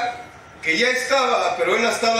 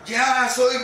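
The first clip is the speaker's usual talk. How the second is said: pompous president speech; 5 semitones higher, slower than usual. Retold or imitated. Announcing to the group he is president, pompous. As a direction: declare it like the president of the Republic. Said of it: "como si hubiera sido presidente de la República".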